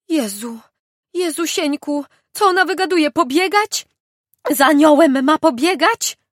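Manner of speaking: high, loud, astonished outburst; shocked disbelief. Acted. Village head shocked by her words.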